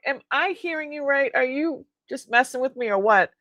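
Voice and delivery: half-joking astonished challenge; retold disbelief. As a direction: replay being stunned by good news. Retelling disbelief at good news.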